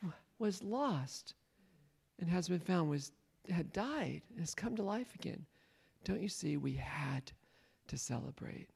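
soft, gentle father, fading to a whisper; tender father. Acted. Father pleading softly with his resentful older son, fading to a whisper.

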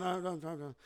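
brief, soft, indistinct grumble; imitated mumble. Buddy answers "how are you doing", mumbling as he leaves. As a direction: mimic muttering under the breath. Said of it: "mumbled as he was walking off".

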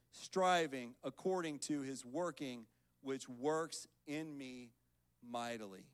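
measured, emphatic Bible reading; scripture reading. Acted. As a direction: read the verse out deliberately, phrase by phrase. Reads scripture to congregation.

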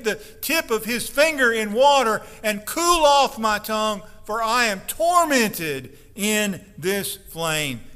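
a loud, pleading call for mercy; crying out. Acted. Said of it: "He cried out and said".

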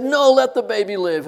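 loud, insistent outcry in retelling; urgent retold plea. Preacher voices mother pleading for baby, urgent and loud. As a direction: call out in protest, acting her part.

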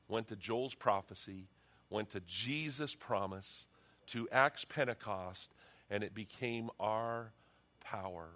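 slow, fervent pastor's prayer with long pauses; earnest prayer. Acted. Pastor praying over the church, slow and fervent. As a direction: pray it out slowly and earnestly.

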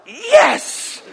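put-on high, loud little-kid cheer; a mock triumphant yes; gleeful yes. Little brother cheering his chance. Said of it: "And I was like".

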